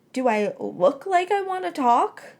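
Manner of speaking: high, slow, scornful retort; sarcastic retort. A narrator's reading. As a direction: throw the question back at him. Miserable girl snaps back.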